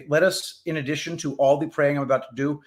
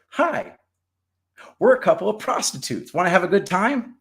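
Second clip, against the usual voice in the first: high squawky parrot squeal; 6 semitones higher than usual. Retold or imitated. Woman imitating her parrots to the priest, high parrot voice. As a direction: pitch it way up like a parrot repeating a line. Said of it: "all they ever do is say".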